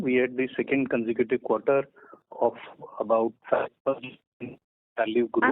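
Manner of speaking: muffled, as if through a hand. Real, not acted. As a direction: voice dulled and covered. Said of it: "you're sounding muffled".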